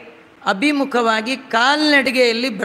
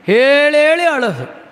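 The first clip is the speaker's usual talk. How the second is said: mock wailing; 4 semitones higher, 4 dB louder than usual. Mimics a crying complainer.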